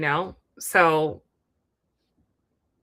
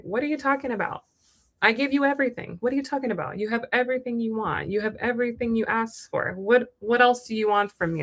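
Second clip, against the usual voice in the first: higher, quick, baffled defensive protest; exasperated boyfriend; 4 semitones higher, faster than usual. Retold or imitated. Distant partner brushing off her need for emotion, exasperated. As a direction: play the man who can't see the problem.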